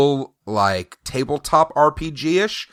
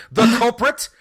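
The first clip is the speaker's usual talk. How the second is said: much higher, slow theatrical accusation; dramatic accusation; 14 semitones higher, slower than usual. Pretend. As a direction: accuse him like a detective's big reveal. Dramatic accusation ending the bit.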